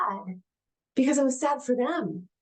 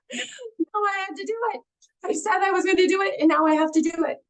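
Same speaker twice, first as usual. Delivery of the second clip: laughing dismay; 7 semitones higher than usual. Retold or imitated. Laughing dismay at own dare.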